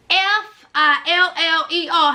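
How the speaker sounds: each letter of FILLER said separately; spelled out letter by letter. Shown as a demonstration. Vlogger to viewers, spelling out the word. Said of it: "spelling the word out".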